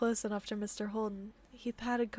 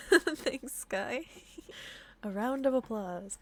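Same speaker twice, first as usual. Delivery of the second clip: plain reading voice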